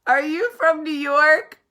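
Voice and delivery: high, loud, drawn-out question; hammed-up repeat. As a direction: belt out the stranger's question, stretching each word. Exaggerated repeat of stranger's question.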